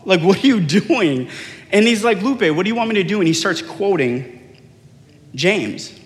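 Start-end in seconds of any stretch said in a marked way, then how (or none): 0.0-1.3 raised-pitch exasperated scolding; retold freak-out. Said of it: "I start freaking out". 2.2-3.2 quick, higher-pitched imitated comeback; mock protesting retort. Friend's retort in acted quarrel.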